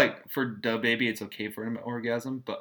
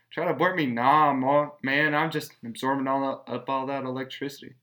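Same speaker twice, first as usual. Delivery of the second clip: put-on baby in the womb; 3 semitones higher, 6 dB louder than usual.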